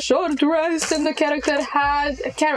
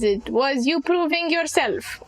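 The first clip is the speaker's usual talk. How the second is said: mocking young hag; 3 semitones higher than usual. GM plays hag, rising mockery.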